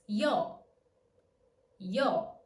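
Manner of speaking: I and O in a single emission; yo as one sound. Shown as a demonstration. Teacher modelling yo for learners as one diphthong. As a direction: glide Y straight into O. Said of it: "always pronounced with a single emission".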